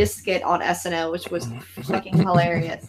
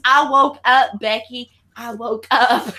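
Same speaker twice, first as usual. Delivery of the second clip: loud start, pitched-up imitation; mock declaration; 4 semitones higher, 3 dB louder than usual. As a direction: imitate the skit's emphatic steward. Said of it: "And he goes".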